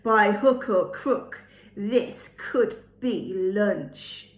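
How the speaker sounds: slow, menacing wolf voice, only lightly put on; hint of wolf. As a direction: drawl the rhyme slowly like a hungry wolf. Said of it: "Wolf says".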